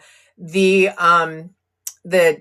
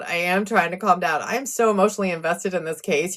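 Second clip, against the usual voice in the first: softer repeat, settling herself; softer, calming down; 6 dB quieter, faster than usual. Real, not acted. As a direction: say it again quietly to steady yourself.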